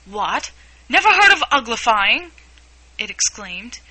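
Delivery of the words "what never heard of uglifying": high, loud incredulous exclamation; a Gryphon shocked that Alice never heard of it; astonished. A narrator's reading. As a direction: gasp it out in disbelief. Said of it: "lifted up both its paws in surprise".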